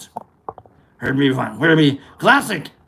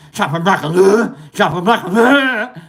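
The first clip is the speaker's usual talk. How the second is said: giggling through the words; laughing; 3 semitones higher, 4 dB louder than usual. Real, not acted. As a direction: laugh while repeating it. Repeating phrase, laughing.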